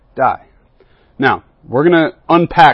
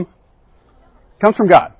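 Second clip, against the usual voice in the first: slow, higher "it comes from God", God landed hard; emphatic answer; 6 semitones higher, 3 dB louder, much slower than usual. Real, not acted. Pastor answering his own question for the youth, slow emphasis. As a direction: draw out the answer, "comes" stressed.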